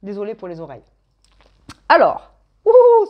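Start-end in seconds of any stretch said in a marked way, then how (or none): 1.9-3.1 high, drawn-out ooh of wonder; delighted ooh. Real, not acted. Reader gasps at the dice she just rolled, delighted. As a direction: marvel at the cards as they land. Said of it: "c'est beau ça".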